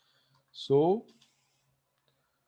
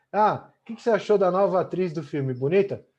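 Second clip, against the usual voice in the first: asking an opinion; 4 semitones higher than usual. Shown as a demonstration. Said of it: "Olha o meu tom".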